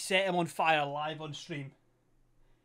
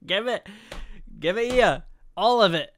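loud playful greedy grab; mock grabby demand; 4 semitones higher, 9 dB louder than usual.

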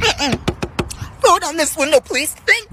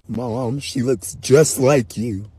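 put-on kid taunt; slower than usual. Kid voice, low and slow.

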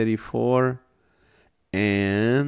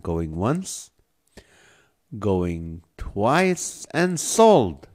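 auctioneer; much slower than usual. Pretend. Auctioneer countdown to the winner.

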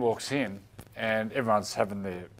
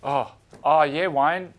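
nervous player voice; 5 semitones higher, 4 dB louder than usual. Retold or imitated. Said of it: "So Bedsy went".

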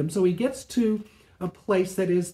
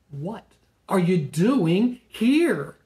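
slow, drawn-out question; gentle voice of God; 4 dB louder, much slower than usual. Acted. God asking Elijah in the cave, slow and patient. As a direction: ask it patiently, stretching each word.

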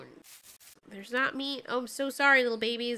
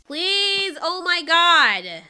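crying out; 3 semitones higher, 6 dB louder, much slower than usual. Real, not acted. Pack being killed.

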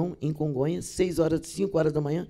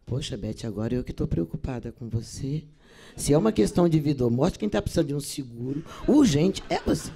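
calm gentle reply; 4 semitones lower than usual. Retold or imitated. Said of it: "parei e falei assim".

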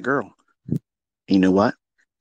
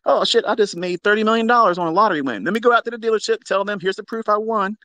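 mocking new money; 9 semitones higher than usual. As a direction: ham up the brag of a fresh millionaire. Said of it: "That's new money for you".

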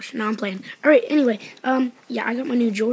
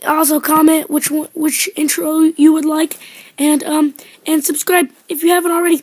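louder, brighter sign-off; loud outro; 3 semitones higher, 7 dB louder than usual. Real, not acted. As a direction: wrap up with energy.

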